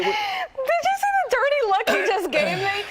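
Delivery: gasping, slow and high; gasp, then play up the shock; mock outrage. Mock outrage at Jim's look.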